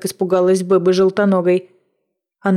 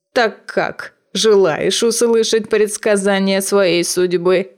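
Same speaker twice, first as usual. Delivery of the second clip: put-on old witch voice; slower than usual. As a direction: tempt her like an old hag. Witch offers a fortune.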